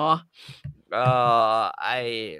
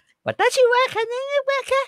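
mock Japanese. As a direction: squeak it out like a cartoon Japanese character. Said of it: "คือมันญี่ปุ่นน่ะ".

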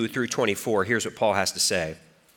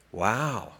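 normal talking voice

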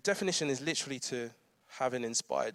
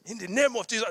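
hint of dramatic African prayer, raised pitch; mock fervent prayer, higher; praying parents; 8 semitones higher than usual. Parents praying over child at drop-off, mock fervent. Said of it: "all their parents going".

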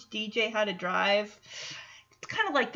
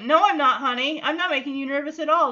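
defensive dad; 3 semitones higher, 5 dB louder, faster than usual. Retold or imitated. Retold dad denying it, snapping back.

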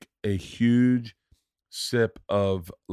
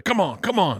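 higher, strained-sounding plea; mock urging; 8 semitones higher than usual. Man in sketch urges the ketchup out, mock-frantic higher voice. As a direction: act out coaxing a stuck bottle.

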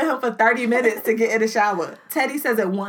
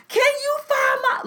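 put-on much higher child voice; imitating a kid. Mother imitating her daughter asking for help, high child voice. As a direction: squeak it like a frantic little girl. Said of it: "Livy's like".

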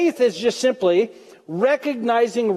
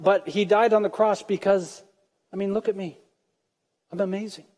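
mock smug thought; 4 dB quieter than usual. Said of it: "And you thought".

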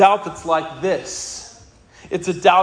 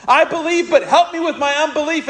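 pleading cry; 6 semitones higher than usual. Acted. Repeating the father's plea.

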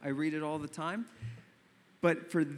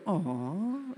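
drawn-out audience coo; touched "aww"; 3 semitones higher than usual. Shown as a demonstration. Preacher showing how listeners react to the sweet answer, cooing. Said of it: "that's the part where we go".

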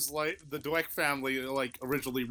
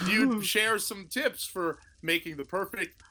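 robot voice; 3 semitones higher than usual. Acted. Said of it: "the robot voice, that is mysteriously happening".

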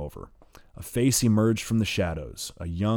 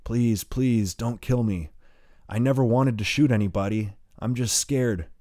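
higher, frightened pleading; 4 semitones higher, 4 dB louder than usual. Acted. Wounded boy pleading with the gunmen, scared. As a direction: beg through fear. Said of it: "He pleads".

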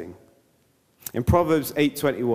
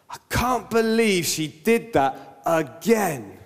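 gossip voice; 3 semitones higher, slower than usual. Retold or imitated. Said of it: "you say".

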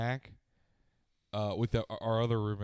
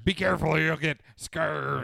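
plain warning; 4 semitones higher, 5 dB louder than usual. Shown as a demonstration. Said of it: "they're not saying it like".

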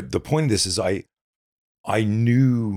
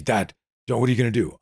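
put-on raised, worried kid's plea; imitating scared child; 6 semitones higher than usual. Son asks his dad at bedtime, in a mild scared child voice. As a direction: play the frightened little son.

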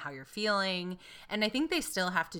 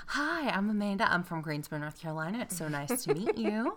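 mild Southern accent. Shown as a demonstration. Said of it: "I will get more Southern".

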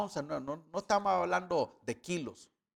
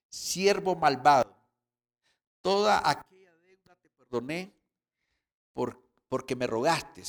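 stern rebuke; 6 dB louder than usual. Retold or imitated. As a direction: scold the wicked servant. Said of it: "su señor enojado".

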